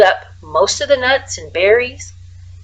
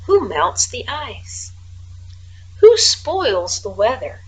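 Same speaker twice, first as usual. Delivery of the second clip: poem recital. A narrator's reading. Frederick reciting his poem to the mice, as if from a stage. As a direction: recite like a little stage performance. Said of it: "as if from a stage".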